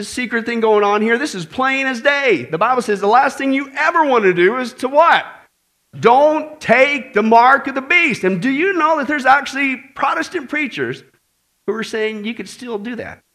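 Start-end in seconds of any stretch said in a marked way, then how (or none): 6.0-8.2 slow, loud warning; a preacher hammering the warning to the crowd; emphatic warning. Acted. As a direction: drive it home slowly and loudly.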